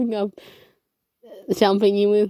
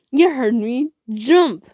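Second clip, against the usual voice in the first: grumbled; 4 semitones higher, 5 dB louder, slower than usual. A narrator's reading. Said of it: "he grumbled".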